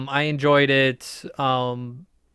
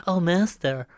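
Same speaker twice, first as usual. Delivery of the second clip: whiny assistant; 2 semitones higher than usual. Acted. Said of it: "the whiniest, like, kinda Jedi assistant".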